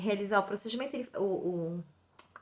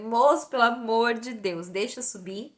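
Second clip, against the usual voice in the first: slow, mildly desperate begging; desperate plea; 4 dB louder than usual. Retold or imitated. Patient begging receptionist to let her go up, mildly desperate. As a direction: plead with him, stretching the words. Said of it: "Aquilo foi me dando desespero".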